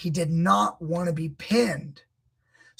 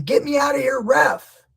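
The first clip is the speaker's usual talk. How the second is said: high, loud mock plea to the ref; mock pleading shout; 8 semitones higher, 7 dB louder than usual. Imitating the wrestler yelling at the ref, loud and high. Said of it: "while going".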